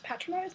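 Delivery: patronize with a short a, pitched high; playful pronunciation test. Shown as a demonstration. Trying out the British way to say patronize. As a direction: patronize said as PAT-ronize, tried out lightly.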